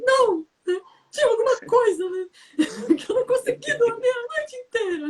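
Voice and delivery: very high, crying whine with a half laugh; hammed-up fake sob of a pampered aristocrat; spoiled whiny princess. Shown as a demonstration. Spoiled princess whining to show the satire, fake crying. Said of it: "se você faz um tom de voz assim".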